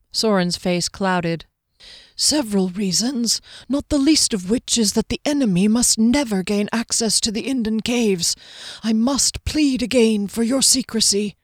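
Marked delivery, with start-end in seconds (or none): 2.2-11.4 slightly raised, lightly voiced earnest swordsman; a hint of a solemn, guarded character; earnest Soren, guarded. Swordsman pleading with visitor for secrecy, lightly voiced earnest plea.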